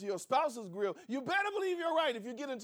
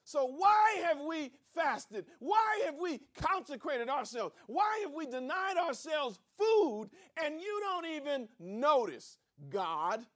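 indignant complaint; 5 semitones higher, slower than usual. Acted. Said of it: "they say".

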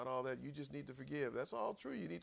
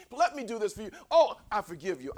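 louder, laughing through it; laughing mock apology; 4 semitones higher, 8 dB louder than usual. Preacher laughing while playing eager apologizers. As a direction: gush it with a laugh.

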